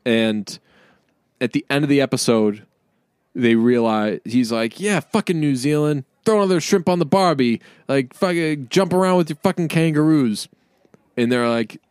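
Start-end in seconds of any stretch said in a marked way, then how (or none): 4.8-10.5 higher-pitched retold jeering; lightly acted heckling, tossed out scornfully; mock taunting. Fruit seller jeering at New Zealanders, mock taunting. Retelling a character's racist taunts.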